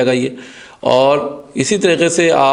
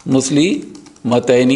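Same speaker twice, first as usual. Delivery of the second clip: slow demo word; much slower than usual. Shown as a demonstration. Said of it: "slow demo of the word".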